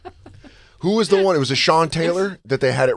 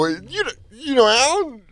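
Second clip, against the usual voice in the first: mock surprised, pitched up; 11 semitones higher than usual. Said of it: "They go".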